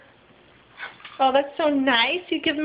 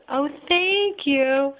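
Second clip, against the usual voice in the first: tender thanks; much slower than usual. Real, not acted. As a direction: savor each word gently.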